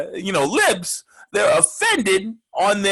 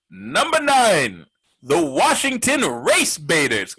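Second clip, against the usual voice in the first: slow, drawn-out countdown reveal; countdown announcer; slower than usual. Acted. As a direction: announce it like a late-night top ten. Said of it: "The top ten replacement names".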